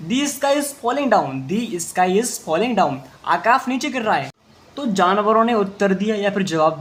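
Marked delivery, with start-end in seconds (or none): 0.1-1.5 slow, careful reading; slow read-aloud. Shown as a demonstration. Teacher reading the line slowly to students. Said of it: "ध्यान से देखिए". 1.5-2.9 slow reread; slow repeat. Shown as a demonstration. Teacher repeating the line slowly for students. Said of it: "ध्यान से देखिए".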